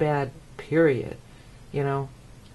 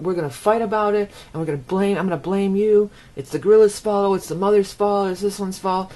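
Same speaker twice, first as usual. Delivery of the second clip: mock blaming; 4 semitones higher, 5 dB louder than usual. Acting out people blaming each other.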